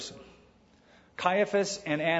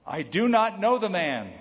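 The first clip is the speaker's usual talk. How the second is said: raised, louder denial under oath; emphatic oath; 4 semitones higher, 3 dB louder than usual. Acted. Peter denying Jesus to a servant girl, emphatic. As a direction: deny it firmly, pitching it up. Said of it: "again he denied with an oath".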